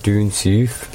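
London attempt that slips into Scottish; lightly Scottish, northern-tinged vowels; accidental Scottish accent. Repeating the failed London attempt, Scottish-sounding accent. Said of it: "That's Scottish".

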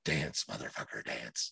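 low, hushed growl of dance, motherfucker, dance; mock menacing order. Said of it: "And I'm like".

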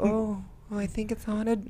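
high, soft frightened voice; breathy little scared voice; mock scared. Mocking scared wife in film.

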